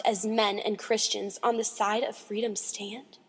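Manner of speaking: measured, emphatic poetry reading; dramatic poem recitation. Acted. Reader reciting The Slave Mother, solemn dramatic recitation. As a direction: declaim the verse line by line, with weight.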